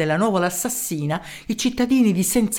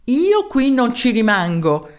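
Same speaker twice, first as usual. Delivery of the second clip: firm retort; 2 semitones higher, slower than usual. Acted. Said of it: "disse a tono".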